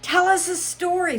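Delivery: March Hare voice. Acted.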